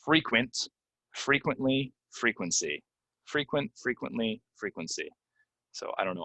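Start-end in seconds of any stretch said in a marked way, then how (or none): 0.0-5.1 "frequent, frequently, frequency" with a long ee in the first syllable. Shown as a demonstration. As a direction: say FREE-quent, clearly modeled. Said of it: "they're really long E's".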